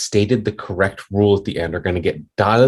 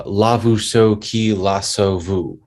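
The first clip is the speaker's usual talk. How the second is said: slow stimulus syllables; much slower than usual. Shown as a demonstration. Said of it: "And then the computer says".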